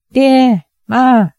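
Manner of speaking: a daughter's high cry of relief; calling out. A narrator's reading. Daughter in the sedan calls out to her parents, high and eager. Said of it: "叫道".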